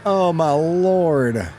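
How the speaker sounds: slow, stunned exclamation. Real, not acted. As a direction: drag it out slowly in disbelief. Stunned by pumpkin pizza idea.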